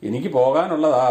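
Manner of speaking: slowed, spelled-out എനിക്ക് പോകാനുള്ളതാ with weight on പോകാനുള്ളതാ; slow clear repeat. Real, not acted. Repeating to mother who asked again, slow and clear. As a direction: spell it out slowly for her. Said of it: "ഏ?".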